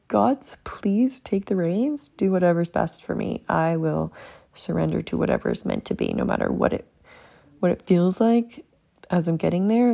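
hushed surrender to the gods; prayer, whispered start. Retold or imitated. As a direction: whisper the opening like a plea, then calm. Praying to the gods.

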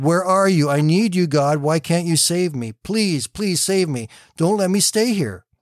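pleading. Acted. Calling out to God.

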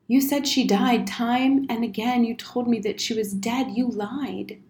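restrained hurt reproach; lightly voiced accusing boy. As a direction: accuse without shouting, slightly high.

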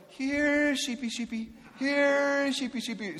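high coaxing sing-song call; calling sheep. Retold or imitated. Wife calling sheep over the fence in a high sing-song. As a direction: coo to the sheep like a pet. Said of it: "she starts going".

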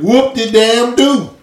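slow, drawn-out mocking whoop; sneering at his kindergarten story; sarcastic dismissal. Real, not acted. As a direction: drag it out, unimpressed.

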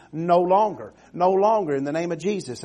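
loud declaration; preaching shout. Acted. Preacher declaring victory over the devil, loud. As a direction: proclaim it with full force.

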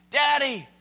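acted frightened girl, very high and loud; imitated child crying out in fear, drawn out; scared child's cry. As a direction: wail for Daddy, stretching out the last word. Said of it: "he heard the cry".

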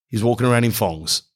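"thongs" said with an F, as "fongs". Shown as a demonstration. Describing a bloke's footwear, "thongs" pronounced "fongs". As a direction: start "thongs" with an F sound. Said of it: "with an F".

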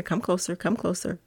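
drawing you in, hushed; hushed emphasis. Pretend. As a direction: lean in and hush it. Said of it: "I wanna tell you a secret".

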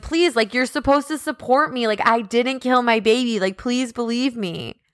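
mock-tearful begging, easing down at the end; retold tearful pleading. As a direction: plead on someone's behalf, without real tears. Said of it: "Skylar literally cries and says".

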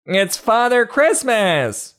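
very high, slow squeaky cry; tiny excited ant. Acted. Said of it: "cried one of the ants".

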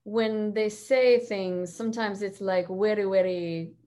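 Russian accent. Shown as a demonstration. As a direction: feel your way through a Russian accent. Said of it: "do the Russian one".

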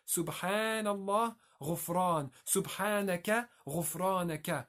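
pair Subhanallah with غفران, long "aa" held in each; measured matching of Subhanaka and غفرانك, long vowels stretched; word-pattern demonstration. Shown as a demonstration. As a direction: sound out Subhanallah, غفران as rhyming word shapes. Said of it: "same pattern of a word".

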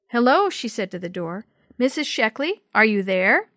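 loud call toward a door. Acted. Calling at a closed door.

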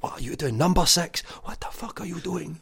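high furious mock yell at a teammate; imitating a raging defender yelling at a winger; imitated screaming fury. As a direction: shriek it like an enraged centre back. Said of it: "He's screaming at me".

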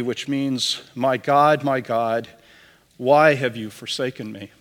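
solemn, measured reading of the Passion; scripture reading. Acted. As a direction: read the Gospel to the congregation with gravity.

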